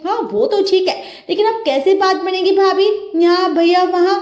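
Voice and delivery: sister-in-law needling her brother's wife; teasing sister-in-law. Acted. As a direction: tease the new bride sweetly but slyly.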